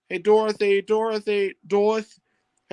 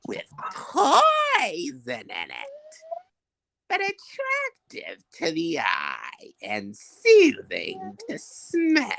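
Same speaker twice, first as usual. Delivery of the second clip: scheming witch, wild pitch swings from hiss to shriek; crooning witch, drawn out and then screeching; wicked witch; 8 semitones higher, much slower than usual. Acted. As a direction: gloat over the poison like the Wicked Witch. Witch brewing a poison spell.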